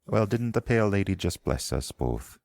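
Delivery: a Southern Isle healer scolding her patient to lie still; thick Southern Isle accent. Acted. Priestess warning the wounded rider not to sit up, thick Southern Isle accent. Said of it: "in a thick Southern Isle accent".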